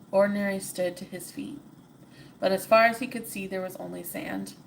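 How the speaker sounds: steady storybook reading; story narration. A narrator's reading. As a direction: read it like a bedtime tale. Reads the story aloud.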